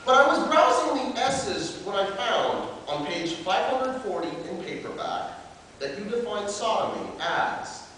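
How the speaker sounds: declaimed slam-poet letter; open letter performance. Acted. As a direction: address the makers formally, as a performed piece.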